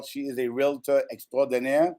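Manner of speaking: playful fake French accent. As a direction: purr it in a mock French accent. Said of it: "my fake black French accent".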